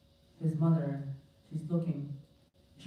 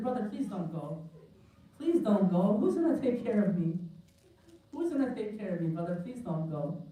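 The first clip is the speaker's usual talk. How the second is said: lightly voiced small girl, higher pitch; little girl pleading; 4 semitones higher than usual. Little girl grabbing her brother's foot as he leaves, mild pleading. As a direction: beg a departing brother to stay, pitched up. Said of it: "A little four-year-old girl".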